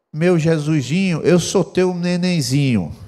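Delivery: put-on slow, lightly babyish sweet talk. Shown as a demonstration. Pastor demonstrates to the congregation, lightly babyish. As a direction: coo it like a small child, slowly. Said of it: "com voz de bebê".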